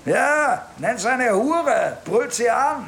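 worked-up, indignant account; heated retelling. Acted. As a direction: tell it with rising outrage. Suspect recounts the husband's abuse.

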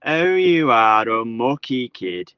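loud, slow Scouse call from outside; Paul O'Grady Scouse. Acted. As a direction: coax him out in a booming Scouse lilt. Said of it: "He's trying some of his Scouse idioms".

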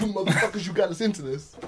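angry yell. Acted. Acted angry villager.

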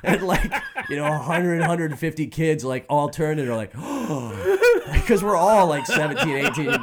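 high, loud, laughing retelling; can't stop laughing while telling it; laughing through it. Real, not acted.

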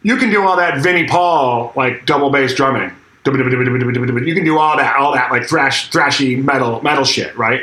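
imitated dismissive sarcasm; sarcastic. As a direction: retell a rival belittling your style. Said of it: "All sarcastic".

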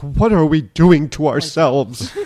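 slow, drawn-out mock lament; lightly voiced mother, dragging each word; imitating mother. Speaker voicing mother's dismay for the hosts, slow mock lament. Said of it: "if my mother were here, she'd be like".

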